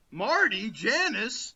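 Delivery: loud, high mock holler; calling out. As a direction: shout the names out for a laugh. Jokingly calling out names.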